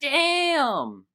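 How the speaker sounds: sudden high loud exclamation; shocked outburst. Real, not acted. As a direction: blurt it out in shock. Shocked by eighteen gold fee.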